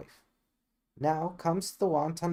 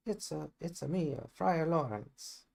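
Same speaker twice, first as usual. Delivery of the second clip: put-on jokey Italian accent; 3 semitones higher, 3 dB quieter than usual. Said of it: "Italian accent".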